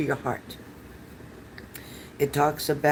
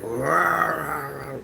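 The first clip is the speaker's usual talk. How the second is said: half-hearted roar impression; imitated roar. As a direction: lightly growl it like a big cat. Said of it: "It growls like".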